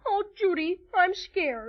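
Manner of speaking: whimpering mock fright; pretend fear. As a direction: make a show of being scared. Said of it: "Let's pretend we're really afraid".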